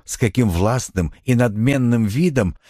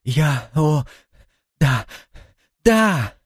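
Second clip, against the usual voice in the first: overwhelmed yes; 5 semitones higher, much slower than usual. A narrator's reading. Antoinette giving in to Cowperwood, rising to an excited yes. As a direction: let the yes burst out.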